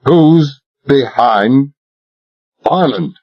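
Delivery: slow, hard, every word weighed; implacable. Acted. Talbot presses Royal a second time, implacable. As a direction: repeat it without mercy. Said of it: "I repeated implacably".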